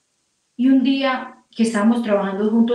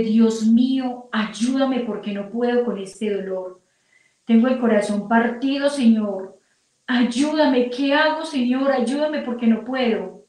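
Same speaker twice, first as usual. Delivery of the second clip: pleading prayer; 2 semitones higher than usual. Retold or imitated. Woman asking God's help with a broken heart, pleading prayer. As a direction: retell a heartfelt cry for help.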